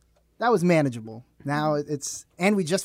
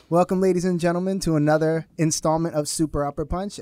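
slightly lifted host announcement; show-opening welcome; 2 semitones higher, 4 dB louder than usual. Real, not acted. Host welcoming podcast listeners to the episode, announcer-like.

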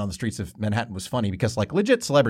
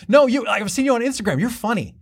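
excited fan; 10 semitones higher than usual. Retold or imitated. Stranger insists she recognizes him.

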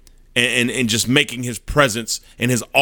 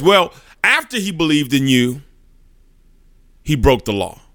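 irritated. Acted. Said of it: "he's getting kinda irritated".

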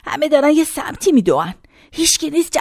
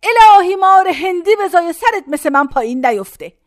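fervent blessing; 3 semitones higher, 4 dB louder than usual. Retold or imitated. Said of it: "زد به سینش".

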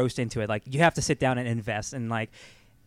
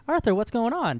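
cheery Mary Beth; 9 semitones higher than usual. Retold or imitated. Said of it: "and Mary Beth's like".

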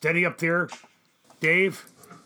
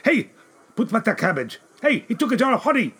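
loud angry market shouts; shouting; 12 semitones higher, 9 dB louder than usual. Acted. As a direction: yell after the thief. Merchants shout at thief.

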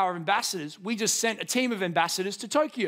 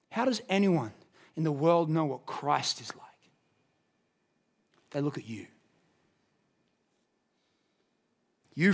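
hushed preaching; 5 semitones lower, slower than usual. Acted. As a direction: lean in and speak it gently to the congregation. Soft intimate sermon climax.

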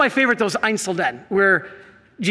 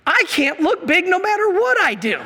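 much higher, a comic squeak of fear; mock panic; 9 semitones higher than usual. Facing two grizzlies, high comic fearful whine. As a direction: whine it like you know you're doomed. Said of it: "I'm like".

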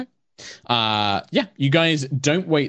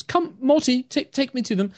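gentle elf priestess; 14 semitones higher than usual. Acted. Blind elf asking her dog to lead her to the guests.

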